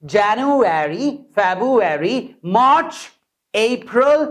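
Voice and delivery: slow January, rising months; month drill. Shown as a demonstration. Teacher reviews the month names in a drill. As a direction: recite months clearly. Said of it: "revision drill".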